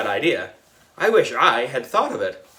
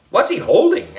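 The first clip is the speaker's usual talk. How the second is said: alarmed; 12 semitones higher, 4 dB louder than usual. A narrator's reading. Kids alarmed by chainsaw.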